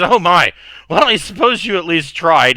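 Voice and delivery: put-on a merry drunk lord, amused and condescending; drunk host. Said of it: "he's already drunk".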